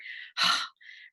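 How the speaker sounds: heavy weary exhale; frustrated sigh. Shown as a demonstration. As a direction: let the stress out in one sigh. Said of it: "we're like".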